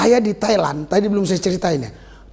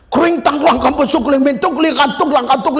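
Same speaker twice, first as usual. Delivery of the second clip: speaking in tongues; 5 semitones higher than usual. Shown as a demonstration. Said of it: "saya dapat bahasa roh yang gitu itu".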